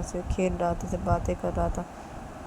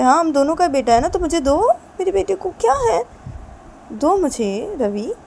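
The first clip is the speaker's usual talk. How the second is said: much higher and louder, insistent pleading; insist, getting louder each phrase; loud demand; 10 semitones higher, 8 dB louder than usual. Acted. Husband loudly demands his son from his wife.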